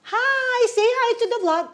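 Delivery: high, eager hello to the camera; mock vlog greeting. Mom greeting her vlog viewers in a high excited voice. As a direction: pitch up into a cheery vlogger hello.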